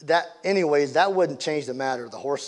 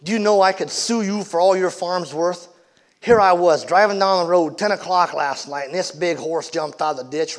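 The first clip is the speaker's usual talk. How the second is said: angry shouting driver; 3 semitones higher, 6 dB louder than usual. Acted. Angry driver yelling at Dad over the horse crash, loud and furious. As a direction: chew them out like a wronged driver.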